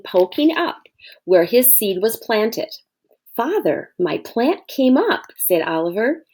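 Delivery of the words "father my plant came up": put-on high, thrilled little boy; excited child. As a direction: announce it like a proud little kid. Oliver thrilled plant came up.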